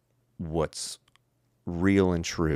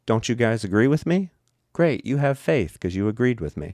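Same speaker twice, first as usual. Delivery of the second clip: mock smug teacher; 6 semitones higher, 4 dB louder than usual. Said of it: "and then go".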